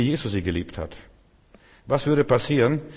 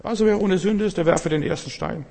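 much higher-pitched, lightweight mock delivery; lacking divine authority; 10 semitones higher than usual. Shown as a demonstration. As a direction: toss it off high, as if on merely human authority. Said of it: "Spreche ich in meiner Autorität". (hohe Stimme, ohne göttliche Autorität)

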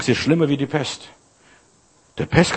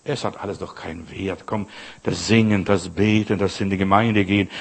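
devil's discouraging voice; 5 semitones lower than usual. Acted. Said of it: "Der Teufel kommt immer mit Entmutigung".

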